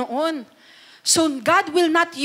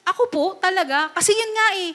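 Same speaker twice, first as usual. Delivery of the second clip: lightly voiced pleading Moses, higher; whiny Moses; 5 semitones higher, faster than usual. Preacher voicing Moses doubting God's call, mock pleading. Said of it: "tinanong niya ni Moses".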